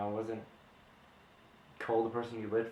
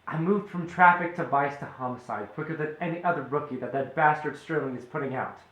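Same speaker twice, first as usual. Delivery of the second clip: angry; 3 semitones higher, 4 dB louder than usual. Acted. Detective defends his career hotly.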